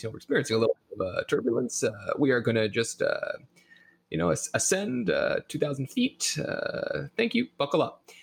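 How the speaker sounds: airline captain over the intercom; pilot voice. Retold or imitated. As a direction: cabin announcement voice. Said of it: "this is my pilot voice".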